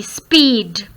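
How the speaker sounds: "speed" with a long ee sound. Shown as a demonstration. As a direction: hold the ee in "speed". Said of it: "We have to pronounce it as E". ("speed" में ई की लंबी आवाज़)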